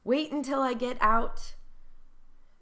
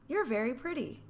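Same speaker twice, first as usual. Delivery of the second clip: friendly and light; easy, pleasant "you're very pretty"; kind compliment; 4 semitones higher than usual. Shown as a demonstration. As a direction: pay a nice compliment. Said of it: "so there's one example".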